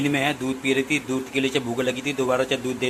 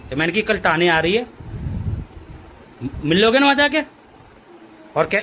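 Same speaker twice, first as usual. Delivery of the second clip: high pet talk; 6 semitones higher than usual. Real, not acted. Owner asking his sad pet if she misses big mummy, high baby talk.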